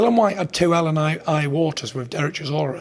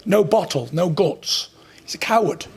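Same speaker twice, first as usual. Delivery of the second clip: cocky, higher jeering insults; 5 semitones higher than usual. Real, not acted. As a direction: spit the insults with swagger. Trash-talking rival before fight.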